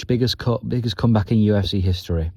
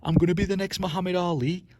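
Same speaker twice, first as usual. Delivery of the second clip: much higher, hammed-up scouse boast; imitating a cocky fighter's bragging; mock Darren Till; 10 semitones higher, 6 dB quieter than usual. Mocking Till's bragging about his big future, higher and hammed-up. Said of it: "he kept saying to himself".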